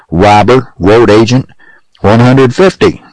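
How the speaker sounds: slow down on the final figure, incensed; angry shout. A narrator's reading. Judge raises the fine on Pecos, shouting angrily. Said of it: "shouted Judge Bean, purple in the face".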